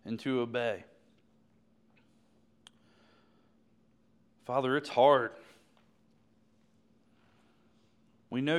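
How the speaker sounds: earnest prayer in halting phrases with long pauses; heartfelt pulpit prayer, gaining force toward the end; public prayer. Real, not acted. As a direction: pray aloud for the congregation, pausing often. Leads the congregation in prayer.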